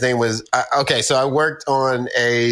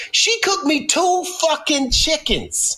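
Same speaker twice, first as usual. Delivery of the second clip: much higher, slow disbelief; incredulous; 13 semitones higher, slower than usual. Retold or imitated. Steve reacting to the chicken story, incredulous and high. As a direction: stretch out your disbelief. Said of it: "And I was like".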